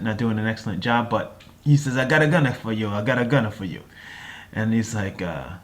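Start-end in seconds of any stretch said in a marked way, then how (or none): 2.0-3.8 put-on Italian accent. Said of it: "my, uh, sort of attempt at an Italian accent".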